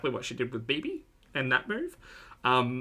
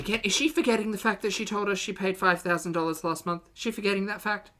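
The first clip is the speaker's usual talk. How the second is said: incredulous; 7 semitones higher than usual. Real, not acted. Incredulous rant at chat.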